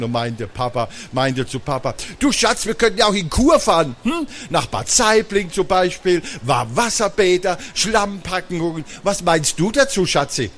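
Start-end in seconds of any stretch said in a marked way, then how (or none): 2.2-10.5 high-pitched, lilting coaxing; teasing sweetness. A narrator's reading. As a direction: suggest it sweetly to tease your husband. Mama teases Papa about a cure.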